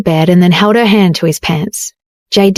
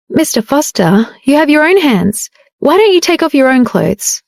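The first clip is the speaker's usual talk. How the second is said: higher, firm rejection; decisive refusal; 5 semitones higher than usual. Acted. Jade firmly refusing her husband's request, decisive and higher. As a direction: shut him down without hesitation. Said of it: "She rejected him decisively".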